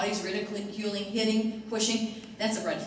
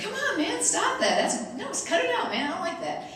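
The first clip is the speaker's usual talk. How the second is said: high-pitched mock whining complaint; imitated protest; 10 semitones higher than usual. Freshmen begging seniors to quit drumming on their heads, high whiny protest. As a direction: plead like an annoyed kid, pitched up.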